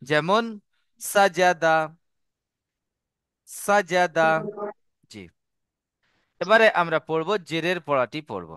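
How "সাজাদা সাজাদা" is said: সাজাদা without drawing out any vowel; unstretched short vowels. Shown as a demonstration. Teacher giving an example of the rule, short-vowelled সাজাদা. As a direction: say সাজাদা with three short, even a's. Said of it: "টান না দিয়ে তাড়াতাড়ি পড়তে হয়".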